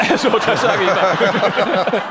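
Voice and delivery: laughing while speaking. Real, not acted. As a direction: chuckle through the words. Laughing aside.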